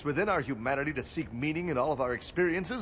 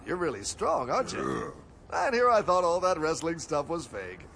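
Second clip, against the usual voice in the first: normal talking voice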